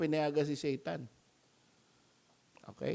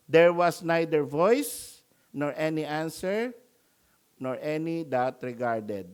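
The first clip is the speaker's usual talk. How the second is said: scripture reading; 4 dB louder than usual. Acted. Reads scripture passage aloud.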